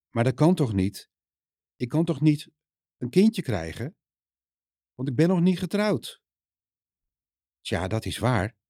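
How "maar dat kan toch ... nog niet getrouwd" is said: rising higher and higher in confused disbelief; disbelieving protest. Acted. Maria tells the angel it cannot be, pitch rising in disbelief. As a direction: Maria can't believe it, her voice climbing.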